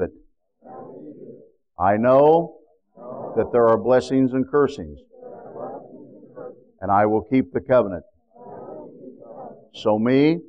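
measured, slow prayer lines for the congregation to echo; solemn prayer lines for the church to repeat; call-and-response prayer. Shown as a demonstration. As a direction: lead the prayer phrase by phrase, slowly. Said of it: "I want you to repeat now after me".

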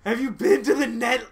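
put-on high, loud squeaky girl voice; man doing a woman's voice, squeaky; little girl voice. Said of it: "here comes my little girl voice".

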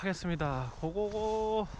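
muffled behind mask; speaking through a face mask. Real, not acted. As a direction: mask over mouth while walking. Seen 4: White face mask covers mouth throughout; removed by 4.8, not in refs.

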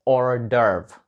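hors d'oeuvre, slowly, as "or-derv" with no H; slow hors d'oeuvre the French way; French pronunciation. Shown as a demonstration. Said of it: "вимова звучить". (hors d'oeuvre повільно, по-французьки: ор-девр)

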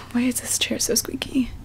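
soft sigh then a muttered complaint; sighing whisper. Real, not acted. Reader annoyed at her squeaky chair, sighing whisper. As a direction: grumble under your breath.

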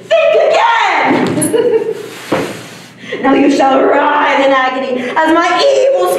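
hammy villain voice, gloating; evil alien villain. Pretend. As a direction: ham it up as an alien conqueror. Kid playing evil alien invader.

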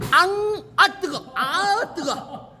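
gasping through a hot bite; talking around burning-hot food; mouth full of hot food. Real, not acted. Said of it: "입 천장 다 까진다".

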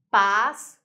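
"Passear" split loudly into pas-se-ar; three separate beats in "Passear": pas, se, ar; slow, punched pas... se... ar; syllable by syllable. Shown as a demonstration. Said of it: "três sílabas".

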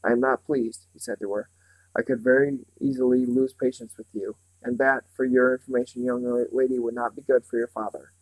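menace. Acted. The man on the chair warns Meg with mild menace. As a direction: let the threat sit under every word. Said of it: "a distinct menace to the words".

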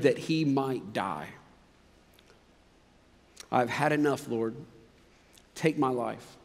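scripture reading. Acted. Reads scripture passage aloud.

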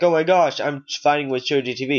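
high, fast, gushing fan voice; excited fan. Pretend. A subscriber thrilled to be playing against him, gushing fast and high. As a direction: gush like a starstruck fan.

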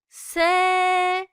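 sharp S, said high and loud. Shown as a demonstration. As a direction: hit the S keen and hard. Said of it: "S harfimiz keskin olarak telaffuz edilir".

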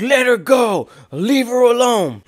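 a mom yelling out the window, retold; retold mom scream. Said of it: "I hear my mom scream".

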